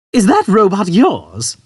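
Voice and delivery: put-on high, slow old man question. Old man to Arthur, high and slow. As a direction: ask about the robot.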